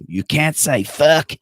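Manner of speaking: hammed-up action movie delivery; movie person voice. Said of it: "That was me being a movie person".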